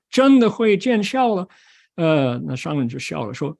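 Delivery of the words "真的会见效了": high, excited exclamation; amazed disciple. Acted. Disciple tells master it really took effect, high and excited. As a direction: marvel loudly at the result. Disciple marvels mantra worked.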